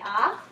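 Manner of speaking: a clear demo ah; saying ahh. Shown as a demonstration. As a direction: open wide and say ah. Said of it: "You can open up and say".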